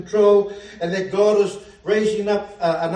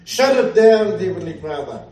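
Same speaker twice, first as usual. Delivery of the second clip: fervent prayer. Retold or imitated. Preacher retelling his prayer against the witches on the beach, fervent. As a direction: pray it out with authority.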